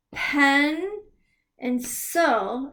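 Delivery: Pen and sil set apart; teacher splitting a word for kids; split word. Shown as a demonstration. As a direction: break pencil into parts. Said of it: "break the words up like this".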